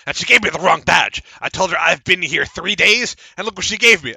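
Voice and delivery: aggrieved little halfling; indignant halfling. Acted.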